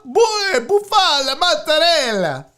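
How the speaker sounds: hammed-up, falling mockery; mocking repeat. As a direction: make fun of a fancy menu word. Mocks the fancy topping name.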